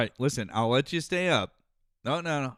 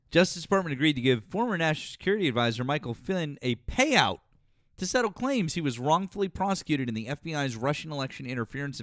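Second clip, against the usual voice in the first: news read; 3 semitones higher than usual. Acted. Reading a headline aloud.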